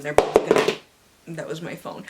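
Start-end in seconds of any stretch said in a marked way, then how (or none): 0.0-0.7 dramatic reveal. Acted. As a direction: slam the ending.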